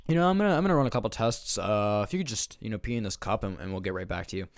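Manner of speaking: mock doctor running routine tests. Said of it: "and the doc goes".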